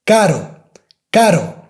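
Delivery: "caro" with a single tap; one light tap in caro; soft R. Shown as a demonstration. Teacher saying expensive in Spanish. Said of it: "The first one, it's something expensive".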